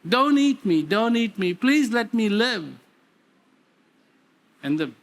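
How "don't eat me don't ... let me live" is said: a scared little cub pleading for its life; frightened pleading cub. Acted. Lion cub begging the big lion, frightened plea. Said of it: "And he said".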